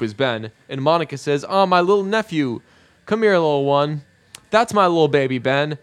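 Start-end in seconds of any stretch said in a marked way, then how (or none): 1.5-5.8 lightly imitated cooing at a baby, slightly higher; doting aunt. Monica greeting her little nephew, mildly cooing.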